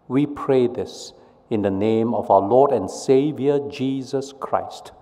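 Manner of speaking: earnest measured prayer voice; leading the church in prayer, solemn. Real, not acted. Opening prayer before sermon.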